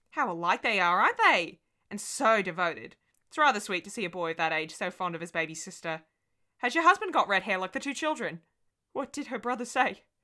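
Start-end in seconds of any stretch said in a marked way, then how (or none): 8.9-9.9 weak, faint, high, barely-there voice. Asking the other speaker what the girl's brother said, asking faintly. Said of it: "I asked faintly".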